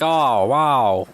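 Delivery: lightly voiced cartoon sailor impression; a hint of a cartoon sailor; Popeye. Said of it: "That's my Popeye version".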